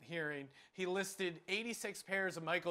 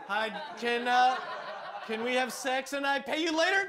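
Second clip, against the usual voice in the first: lightly acted halting second attempt; hesitant start, then a higher mock request; bumbling would-be john; 4 semitones higher, 4 dB louder than usual. Driver trying the scenario one more time, mock fumbling. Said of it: "the guy who messes up the scenario".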